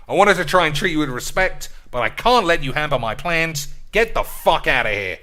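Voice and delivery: a manager loudly threatening a player he wants gone; mock threat. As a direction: threaten the player with a barked send-off.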